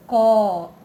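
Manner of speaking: "Coelho" in separate syllables, loud first CO; split into syllables. Shown as a demonstration. Teacher separating the vowels for pupils, "Coelho" split up. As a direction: break "Coelho" into co, e, lho with pauses. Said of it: "Se separou".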